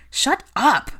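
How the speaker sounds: loud, high-pitched angry yell; bellowing. A narrator's reading. Harry silences the ranting portrait, bellowing. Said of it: "bellowed Harry".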